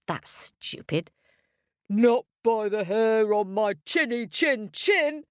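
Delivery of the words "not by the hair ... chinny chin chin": defiant shout. Acted. Big Pig shouting back at the wolf, high and defiant. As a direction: shout it back through the door. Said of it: "shouted Big Pig".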